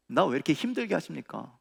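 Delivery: held-back, plaintive question; subdued complaint. Acted. Troubled believer asking God why it is hard, subdued complaint. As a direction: complain to God without raising the voice.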